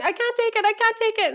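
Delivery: high, whining mock distress; mock whiny Kyle. Mocking Kyle's high whining panic when challenged. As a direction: whine it like a fragile diva. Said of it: "And she's like".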